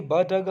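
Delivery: "ब, ड, ग" as bare consonant sounds with a short schwa; letters as sounds. Shown as a demonstration. Teacher reading symbols to students, "ब, ड, ग" pronounced as sounds. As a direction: say "ब, ड, ग" as sounds, buh, duh, guh. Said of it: "हमें सिर्फ उच्चारण पढ़ना है".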